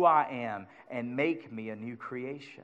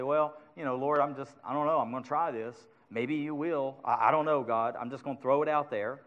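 softer, mock unsure praying; half-hearted prayer; 2 semitones lower, 5 dB quieter than usual. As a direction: mumble a prayer without faith. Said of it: "when I pray and say".

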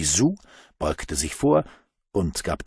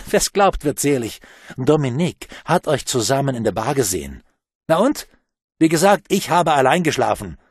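heated quarrel; 5 semitones higher, 5 dB louder than usual. A narrator's reading. Quarrel between Pamela and Bruno.

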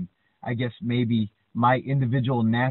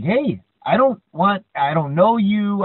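backing off; 7 semitones higher, 7 dB louder, slower than usual. Retold or imitated. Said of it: "And this other guy's like".

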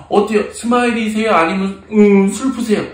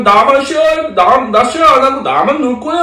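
lightly acted bossy kid, pitched up; mock childish possessiveness, a bit higher; selfish child; 4 semitones higher, 3 dB louder than usual. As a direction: refuse to share like a little child.

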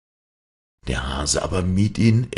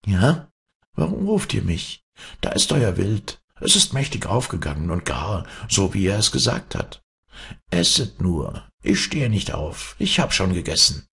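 leise wie die Mutter; 5 semitones higher than usual. Acted. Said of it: "Mit leiser Stimme, wie die Mutter".

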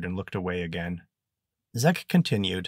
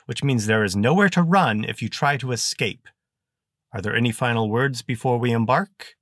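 louder, officious guard's announcement; stern guard; 5 semitones higher, 6 dB louder than usual. Acted. Guard addresses the van load of prisoners, louder and officious. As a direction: read the rules like a bored jailer.

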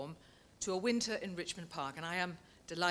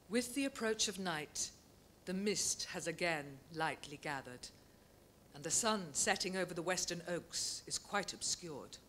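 measured literary reading of a nature essay; unhurried prose reading, savouring each image; reading aloud. Acted. Reads closing extract.

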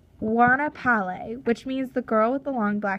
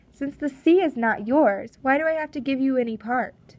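a louder, higher, challenging captain; defiant Russian captain; 3 semitones higher, 5 dB louder than usual. Acted. Captain defying the chief over the sea, louder and higher. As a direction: throw the question at him hard.

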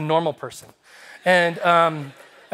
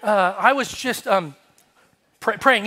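higher, slow, halting excuse; uncomfortable; 4 semitones higher, slower than usual. Retold or imitated. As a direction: stammer it out, acting awkward. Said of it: "I'm, like, so uncomfortable".

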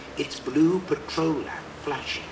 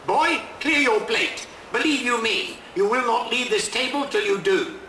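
stern parent; 6 semitones higher than usual. Acted. Parent scolding a boy to clear his plate, stern and raised.

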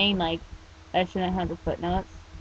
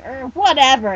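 grumbled; 5 semitones higher, 10 dB louder than usual. Acted. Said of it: "he grumbled".

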